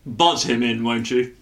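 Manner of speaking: put-on British boss giving an order; British accent, politely summoning. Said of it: "Don't know why I'm so British".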